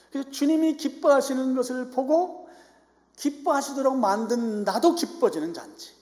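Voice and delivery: high, loud, exultant proclamation; fervent preaching. Acted. Preacher telling the church the Lord's joy becomes theirs, fervent preaching.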